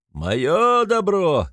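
high, loud, very slow bellow; furious shout. A narrator's reading. Mikolka claims his property as he swings, high slow bellow. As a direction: drag out the claim. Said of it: "кричит Миколка".

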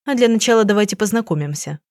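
plain reading voice

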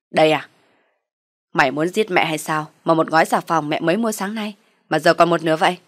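loud accusing mother-in-law; angry scolding. Acted. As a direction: scold her loudly for wasting soap. Mother-in-law accuses over soap.

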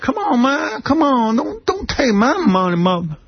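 put-on high, slow pleading kid voice; whiny kid voice. Remembering childhood, he mimics himself pleading in high whine. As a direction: plead like a bullied kid giving up his money. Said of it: "So I'd be like".

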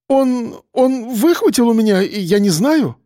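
scared babbling; flustered mumble. A narrator's reading. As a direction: stumble over the words. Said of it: "забормотал тот".

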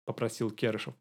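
usual speaking voice

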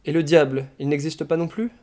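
mildly gleeful question rising at the end; cheerful. A narrator's reading. Madman teasing Ivan about the devil, cheerful. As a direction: ask it brightly, with a touch of mischief. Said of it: "demanda gaiement le malade".

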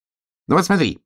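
high, excited hedgehog voice; high-pitched call for attention; eager little hedgehog. Acted. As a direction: pipe up eagerly as a small hedgehog. Hedgehog eagerly showing his friend.

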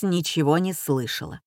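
ordinary delivery

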